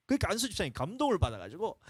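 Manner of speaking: ordinary delivery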